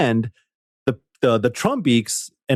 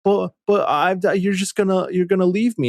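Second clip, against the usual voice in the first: voicing Rowlet; 8 semitones higher than usual. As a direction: play the sad little owl begging not to be left. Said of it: "Rowlet's like".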